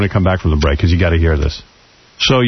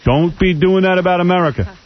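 higher-pitched, indignant pushback; indignant objection; 6 semitones higher than usual. Real, not acted. Host objects to a caller running down America, indignant. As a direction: cut in and push back, offended.

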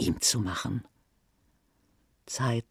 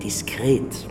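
whispered. Acted. Billionaire on the phone stresses discretion, whispering Diskret.

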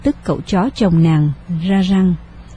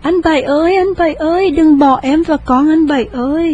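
panicked wail; 7 semitones higher than usual. A narrator's reading. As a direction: wail his name in terror. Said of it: "hốt hoảng la lớn". (gào lên hốt hoảng)

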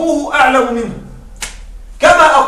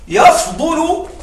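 يفضل stretched very slowly on a high rising tone; drawn-out stress; 6 semitones higher, much slower than usual. Shown as a demonstration. Teacher showing students that أفضل means يفضل, drawn out. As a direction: pull out يفضل long and rising so it stands out. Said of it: "أفضل تساوي يفضل".

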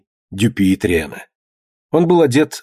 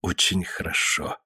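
smiling; 6 semitones lower, 11 dB quieter than usual. A narrator's reading. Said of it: "улыбаясь так".

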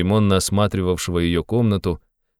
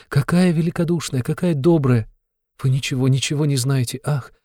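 put-on much higher, pleading girlish outpouring; near despair; 8 semitones higher than usual. A narrator's reading. A girl defending her stepmother to a visitor, despairing. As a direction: plead as if wringing your hands. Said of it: "проговорила это точно в отчаянии".

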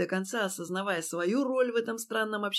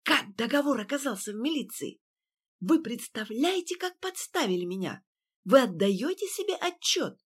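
snake-like whisper; 4 semitones higher than usual. A narrator's reading. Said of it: "тем же змеиным шёпотом".

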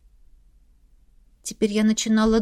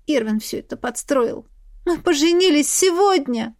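a touch of hopelessness; hopeless; 5 semitones higher than usual. A narrator's reading. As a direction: say it knowing no one believes you. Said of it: "Уже без всякой надежды ответила я".

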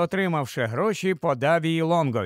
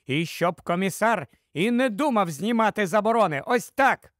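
higher, insistent wife; cutting retort; 4 semitones higher than usual. Acted. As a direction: cut him off with a sharp retort. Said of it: "відрізала Дора". (різко, наполегливо)

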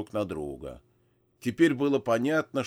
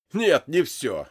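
laughing; 5 semitones higher, 7 dB louder, slower than usual. Acted. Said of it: "захохотал он".

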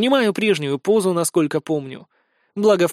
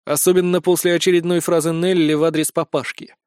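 ordinary delivery, nothing marked

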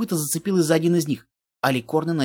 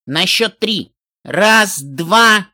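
rising countdown, getting louder; countdown call; 2 semitones higher, 5 dB louder, much slower than usual. Acted. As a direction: count it off, louder each number. Отсчёт перед залпом. (громкий отсчёт)

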